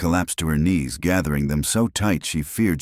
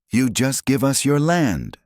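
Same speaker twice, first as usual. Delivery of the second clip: disbelief; 10 semitones higher than usual. Acted. Stunned at his offer.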